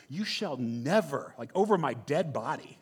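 slow, drawn-out emphatic refusal as Peter; lightly acted stubborn disciple; mock refusal. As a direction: draw out a firm, acted refusal. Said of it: "he actually refuses".

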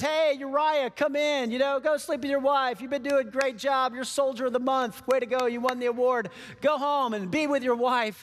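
high, overly friendly flattery; butter him up like a salesman; chummy boss pushing a soldier home; schmoozing king. Acted. David sweet-talks Uriah.

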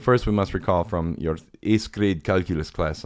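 put-on light Ukrainian accent, slowed down; Miran Becker. Teacher addressing class, lightly imitated Ukrainian accent. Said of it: "He had an awesome accent".

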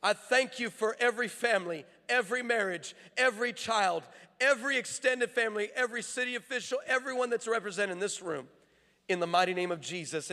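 declarative prayer from the pulpit; commissioning prayer; public prayer. Real, not acted. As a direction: pray it out over the congregation in measured phrases.

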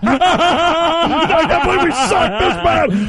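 mock crying owner. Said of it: "Jerry Jones cries".

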